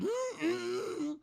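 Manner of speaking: tease, then lay down the condition; Yoda voice. Retold or imitated. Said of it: "He's like".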